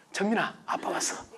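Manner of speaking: soft, whispered, loving hello; gentle hushed homecoming; tender greeting. Retold or imitated. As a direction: coo it to a little daughter. Father greeting daughter sweetly.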